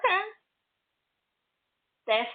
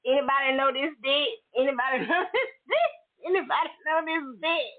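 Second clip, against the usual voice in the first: quick laughing gossip, higher; laughing mock group chat; 4 semitones higher, faster than usual. Women in a group chat passing the pic round, laughing. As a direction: cackle through the question like a group chat. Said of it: "talking about".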